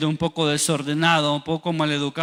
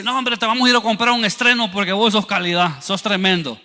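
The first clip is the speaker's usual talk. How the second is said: higher-pitched sarcastic praise; mock proud parent; 3 semitones higher than usual. Parent rewarding the failed son, mock pride. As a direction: gush in mock approval.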